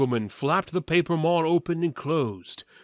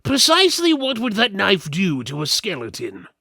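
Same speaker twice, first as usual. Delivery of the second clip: higher, louder mocking question; sceptical companion; 6 semitones higher, 6 dB louder than usual. Party member mocks the thief's knife, higher and louder. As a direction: needle the thief about her knife.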